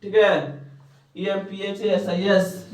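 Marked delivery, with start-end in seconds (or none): 1.2-2.7 slow spelling. Shown as a demonstration. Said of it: "निकाल सही से".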